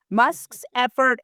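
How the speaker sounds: stretched, sarcastic emphasis; disdainful sarcasm. Real, not acted. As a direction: draw the words out with disdain. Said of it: "I mean that with all the disdain in the world".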